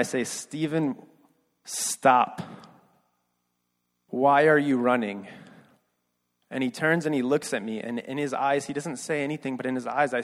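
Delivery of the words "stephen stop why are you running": restrained yell, slow and emphatic; retold yell. Man chasing after his runaway friend Stephen, retold yell. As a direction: re-enact calling after someone, each word weighted. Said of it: "I yell for the once and only time".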